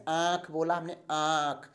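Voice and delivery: आँख said with the long आ nasalized; nasal vowel demo. Shown as a demonstration. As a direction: stretch the आ of आँख and let it sound through the nose. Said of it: "देखिए तो आ, मुंह ज़्यादा खुल रहा है".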